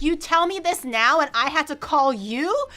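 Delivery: bewildered, why-didn't-you-say-so outrage; high, loud exasperation at a friend; exasperated disbelief. Retold or imitated. Exasperated retold reply.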